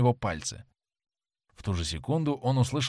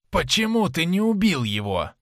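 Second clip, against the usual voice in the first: higher, louder hissing hag voice; hissed; 6 semitones higher, 4 dB louder than usual. A narrator's reading. A drunken woman hisses at the sailor for sparing him. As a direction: hiss it like a drunken tavern woman. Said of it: "прошипела она".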